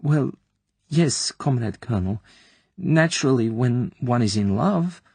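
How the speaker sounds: muffled. Acted. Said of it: "in a muffled voice".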